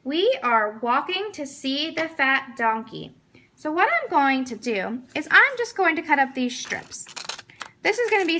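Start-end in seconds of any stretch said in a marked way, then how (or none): 0.1-3.1 slow, even reading of the model sentence. Shown as a demonstration. Teacher reading the sample sentence aloud, slowly. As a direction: read it out slowly so the child can follow. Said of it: "the sentence is as follows".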